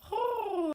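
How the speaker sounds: high exhaled "whoo"; heavy sigh. Real, not acted. Vlogger before getting to the deaths, sighing. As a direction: let out a long bracing breath.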